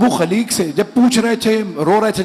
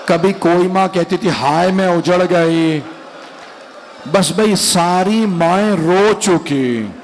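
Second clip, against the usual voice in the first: lamenting recitation building to wail; slower than usual. Acted. Preacher rousing the mourners to weep, rising lament. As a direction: build the lament until it breaks out.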